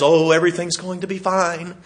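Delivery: breezy, carefree mock reassurance; sing-song fake cheer about the storm; mock Pollyanna. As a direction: lightly play the naive optimist. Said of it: "have a Pollyanna mentality".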